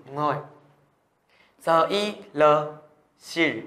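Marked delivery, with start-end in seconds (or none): 3.2-3.6 "sil" ending with a curled tongue; curled-tongue final L. Shown as a demonstration. Teacher models the final consonant for students, curled-tongue L. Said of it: "Các em sẽ uốn lưỡi lên nhá".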